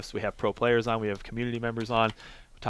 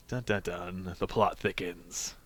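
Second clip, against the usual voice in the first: mock suspense; 5 semitones lower, 8 dB quieter, much slower than usual. Dramatic sting, mock suspense.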